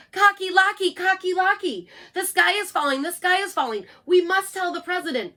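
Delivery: high, loud frantic yell; panicky yell. Acted. Birds warn Cocky Locky, high panicky yell. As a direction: shout the alarm like a frightened bird. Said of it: "and yelled".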